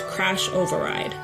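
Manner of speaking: ordinary delivery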